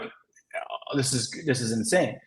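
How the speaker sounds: whispered, then hushed disbelief; awed whisper. Retold or imitated. Telling himself the deal is real, in an awed whisper. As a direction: breathe it out, barely voiced, in awe.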